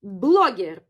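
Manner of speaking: "blogger" with a Russian accent; Russian pronunciation. Shown as a demonstration. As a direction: say "blogger" clearly as the Russian loanword. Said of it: "Blogger is blogger".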